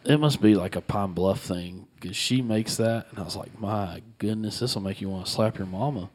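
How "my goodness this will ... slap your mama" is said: put-on Southern accent. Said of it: "Did y'all hear that accent that come out of his mouth".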